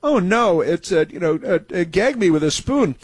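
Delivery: lightly mocking a high school Valley Girl; half-hearted Valley Girl parody. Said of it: "Valley Girl stuff".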